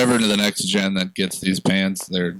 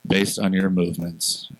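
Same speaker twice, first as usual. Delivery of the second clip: smooth, scripted ad read; commercial voice. Acted. Host reading podcast sponsor's ad for self-buttoning pants, commercial voice. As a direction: pitch the product like a commercial announcer. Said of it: "put on your commercial voice".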